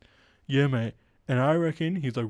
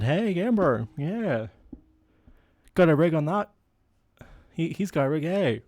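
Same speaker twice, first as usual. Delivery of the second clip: mock Aussie bro; 4 semitones higher than usual. Bro voice about the Irwins.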